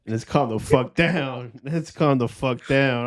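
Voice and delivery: slow, drawn-out playful objection; mock indignant protest. Real, not acted. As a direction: stretch it out in joking protest at a tease. Mock protest at being called forty-two.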